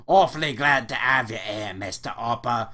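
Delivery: brisk British politeness; British accent. Acted. Clerk welcoming Elliot, British accent. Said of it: "the British-sounding chap".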